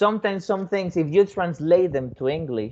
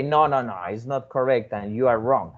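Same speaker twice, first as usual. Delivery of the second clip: harsh correction; 4 semitones lower than usual. Retold or imitated. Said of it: "you are not going to say".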